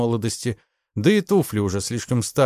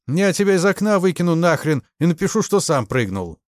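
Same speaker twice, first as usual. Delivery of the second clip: louder, higher menacing warning; threatening; 8 semitones higher, 4 dB louder than usual. A narrator's reading. The major threatening Ignashevich, loud and menacing. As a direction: warn him off, threat in every word. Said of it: "с угрозой сказал тот".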